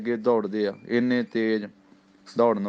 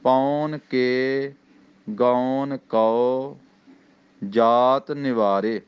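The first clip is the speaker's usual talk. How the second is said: each word drawn out slowly; very slow recitation; much slower than usual. Shown as a demonstration. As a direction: stretch ਪੌਣ ਕੇ ਗੌਣ ਕਉ slowly. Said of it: "ਕਉ ਇਹ ਕੱਕਾ ਊੜੇ ਔਂਕੜ ਹੈ".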